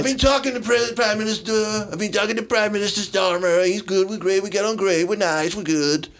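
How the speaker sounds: Trump impression. Mocking Trump's speech.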